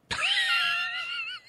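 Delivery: shrieking laugh; high squealing laugh. Real, not acted. Laughing at own drag joke.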